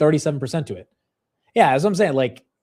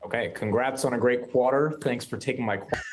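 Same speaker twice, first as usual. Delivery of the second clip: odd twang; 4 dB quieter than usual. Real, not acted. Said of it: "it's not like I'm trying to be from the South".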